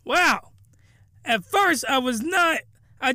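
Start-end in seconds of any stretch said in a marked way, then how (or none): 0.0-0.5 amazed. Retold or imitated. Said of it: "and then I'm like".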